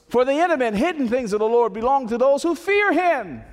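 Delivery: climbing to a high, loud preacher's cry; preaching at full force. Acted. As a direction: build it up like a revival peak. Preacher builds to a climax.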